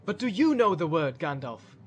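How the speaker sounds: taken aback, questioning the wizard; surprised question. Acted. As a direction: ask in mild astonishment. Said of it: "asked Boromir in surprise".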